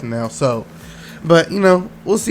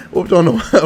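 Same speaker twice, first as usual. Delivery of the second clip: laughing. Real, not acted. Fan laughs while correcting his slip on the score. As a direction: chuckle as you fix the team name.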